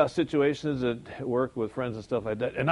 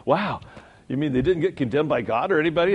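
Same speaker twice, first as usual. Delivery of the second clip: mock amazement; 3 semitones higher, 6 dB louder than usual. Mock astonished question.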